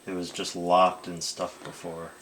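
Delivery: speaking up. Real, not acted. Patient repeats answer for therapist who asked, speaking up. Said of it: "Can you talk louder".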